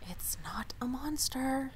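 hushed, slow whisper of protest. Acted. Muttered protest from the crowd, whispered. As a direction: breathe it under your voice, slow.

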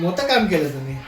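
मोठं काम केलं तुम्ही said with a chuckle at normal pace; amused, normal-speed repeat; laughing. Real, not acted. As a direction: laugh through the mock praise.

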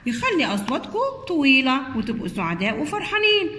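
a hint of a kind superhero promising a fix; Superman the helper. Superman comforting the sad short letters, a lightly heroic voice. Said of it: "قال لهم".

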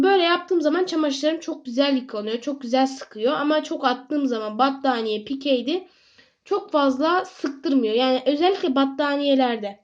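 talking while chewing gum; words round a piece of gum. Real, not acted. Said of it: "Ağzımda sakız var".

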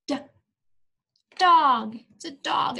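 big bright reveal; excited reveal. Acted. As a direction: announce it proudly to kids. Reveal to children.

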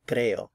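"creo" as CRE-o, falling away; stress on first syllable. Shown as a demonstration. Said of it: "the emphasis is on the first syllable".

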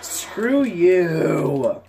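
loud, fuming shout; real angry shout. Real, not acted. Gamer shouting at an enemy, real angry shout. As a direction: spit it at the enemy. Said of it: "I'm getting so pissed off".

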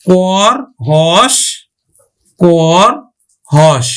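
"কর" and "হস" closed on their consonants, drawn out slowly; slow, separate "কর", "হস", bare final consonants; hasanta ending. Shown as a demonstration. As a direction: say "কর হস" with no vowel after r or s. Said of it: "হলন্ত দিয়ে উচ্চারণ করব".

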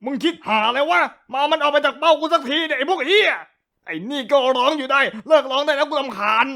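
annoyed yell. Acted. Yelling at friends.

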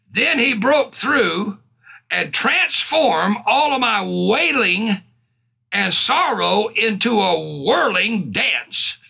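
slow, emphatic psalm proclamation; preached scripture reading. Acted. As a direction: stretch each key word as you read. Reads psalm with fervour.

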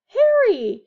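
high, loud happy call; glad greeting. A narrator's reading. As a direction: call out warmly in welcome. Mr Weasley greeting.

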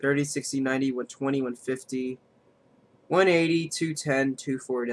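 flat monotone counting; robot voice. Real, not acted. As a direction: drone the numbers like a robot. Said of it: "I sound like a robot right now".

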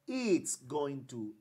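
slow, "it's" stressed, falling; slow contracted form. Shown as a demonstration. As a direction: model the short form slowly. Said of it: "Aquí yo digo".

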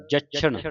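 ਜਛਣ with the ਛ held tight and doubled; tightened consonant. Shown as a demonstration. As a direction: press firmly on the ਛ in ਜਛਣ. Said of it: "ਕਸ ਕੇ". (ਜਛਣ ਕਸ ਕੇ)

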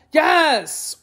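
high, drawn-out exasperated yell; tiger's roar. A narrator's reading. Tiger answering the jackal's silly question, exasperated roar. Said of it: "roared the tiger".

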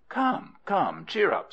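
high-pitched, jollying comfort; jolly her along, pitched well up; coaxing consolation. Acted. Fond crocodile husband to his tearful wife, coaxing.

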